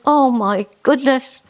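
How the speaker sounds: panicked Jenny. Acted. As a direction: flap like a flustered old lady. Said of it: "Jenny goes".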